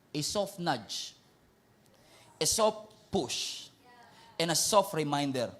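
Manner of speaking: low, soft, slow phrases; soft and gentle. Real, not acted. Pastor gently asking congregation, soft and slow. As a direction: ease into each soft word.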